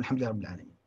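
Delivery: quick, soft murmur with moving lips; just barely voice it, fast; low quick murmured praise; minimum lip-moving recitation. Shown as a demonstration. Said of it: "على الأقل يقول".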